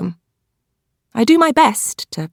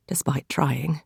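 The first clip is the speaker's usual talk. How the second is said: breathy whispered coda; hushed afterthought; whispered aside; 5 semitones lower, 10 dB quieter, slower than usual. A narrator's reading. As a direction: let it fall away in a whisper. Quiet aside, unvoiced whisper.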